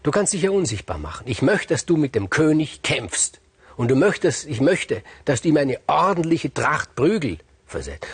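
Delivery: high, loud commanding queen; angry queen. Acted. Queen ordering Giges to beat the king, angrily. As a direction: order the beating with fury. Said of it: "war zornig".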